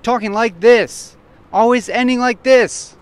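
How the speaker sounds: loud, repetitive punched phrase endings; assertive borderline shout. Shown as a demonstration. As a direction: push it out like a near shout. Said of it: "it's been very repetitive, like it's been kind of a borderline shout".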